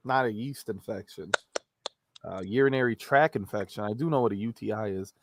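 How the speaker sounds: mic popping on p sounds. Real, not acted. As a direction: plosive pops on the mic. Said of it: "sorry about the popping noise".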